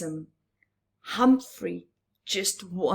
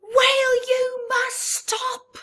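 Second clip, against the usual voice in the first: high, loud commanding yell; 5 dB louder than usual. A narrator's reading. Tiny crab ordering the whale to stop, yelling. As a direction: order him to stop at full voice. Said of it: "She yelled it so loud".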